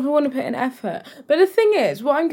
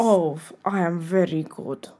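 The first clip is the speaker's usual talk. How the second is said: put-on Halloween fancy-dress accent; 4 semitones lower, 4 dB quieter than usual. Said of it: "accent in honor of Halloween".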